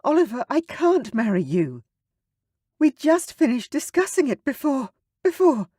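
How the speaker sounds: high, strained distressed voice; barely holding together. Acted. Sarah refusing Oliver, strained and upset. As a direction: fight to keep composure. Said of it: "clearly struggling to hold herself together".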